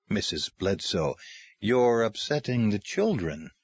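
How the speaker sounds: gently defuse her; gentle. Acted. Mark calms the caseworker for the children, gently. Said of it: "Mark spoke gently".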